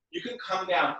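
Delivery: real accidental crack in the voice. Real, not acted. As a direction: let the voice crack briefly mid-instruction. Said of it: "Oh, my voice cracked".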